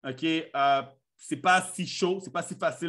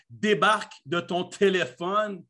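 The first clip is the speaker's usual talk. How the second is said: exasperated nagging; slower than usual. Acted. Voicing annoyed Quebec partner.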